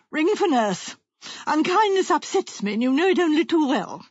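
high, wounded, demanding wife; affronted invalid wife. Acted. Wife sending for nurse after husband's unkindness, wounded. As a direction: give orders like a put-upon invalid.

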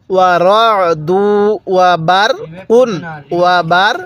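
slow recitation broken into small pieces; model recitation. Shown as a demonstration. Teacher showing how to read, piece-by-piece recitation. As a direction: draw out রাদু, pause after বার. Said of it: "তাহলে কিভাবে পড়ব".

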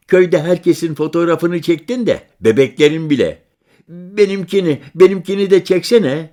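put-on high, loud eager boy; child voice. Boy begging the stranger for his photo, eager and high. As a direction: beg like a village kid.

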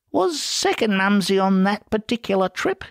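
high, leading question; sly Ferret, probing. Acted. Ferret asks with a glint, high and sly.

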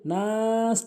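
নাস with a long held vowel; elongation. Shown as a demonstration. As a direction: stretch নাস before the s. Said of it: "টানতে হবে". (নাস লম্বা টেনে)

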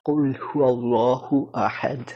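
কুল হু আল্লাহু আহাদ drawn out slowly, tongue on the palate; আরবি accent. Shown as a demonstration. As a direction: hold the tongue up for the final দ of আহাদ. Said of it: "এরকম একটা sound আসে". (জিভ তালুতে রেখে টেনে টেনে আরবি উচ্চারণে আহাদ)

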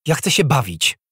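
put-on high, loud childish demand; little girl calling. A narrator's reading. Little princess calling out that she's bored, high and demanding. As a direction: call out like a child wanting attention. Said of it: "zawołała Alia".

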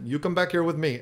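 lightly attempted German accent; badly faked German accent, barely there; terrible German accent. Quoting the man who grabbed him, poor German accent. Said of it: "that was a terrible German accent".

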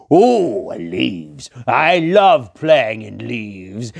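slow, loud, delighted voice; playful lion. Acted. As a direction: gush over the pile of leaves.

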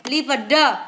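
"Liver the" with a separate voiced "duh" ending. Shown as a demonstration. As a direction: say "Liver the" as "liver-đờ", sounding out the final d. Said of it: "trường hợp ba".

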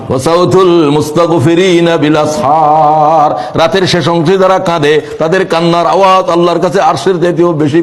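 melodic waz preaching. Real, not acted. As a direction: chant it to a congregation, stretching final vowels. Chanted preaching and recitation. (সুরেলা ওয়াজ, শেষ শব্দে টান)

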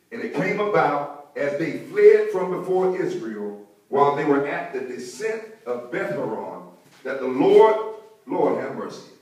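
emphatic, drawn-out Bible reading; scripture reading. Real, not acted. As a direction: read the verse out weightily to the congregation. Reads scripture aloud to congregation.

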